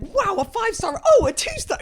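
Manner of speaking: high, loud, overdone surprise; hammed-up gasp of delight, then a fake drop; mock delighted then deflated. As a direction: squeal it like reading reviews live. Mock reaction to reading reviews.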